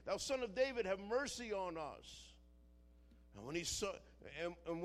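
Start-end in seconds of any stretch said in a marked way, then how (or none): 0.1-2.3 raised, higher-pitched plea, mildly acted; imitated cry for mercy. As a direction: call out for mercy, part way to a shout. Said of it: "they were crying and saying".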